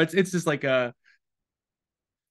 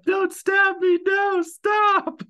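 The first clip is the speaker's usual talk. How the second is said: hammed-up plea, much higher and louder; mock panic; 5 dB louder, much slower than usual. Joking about a dying man's last words, mock panic. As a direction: play a victim begging, all in jest.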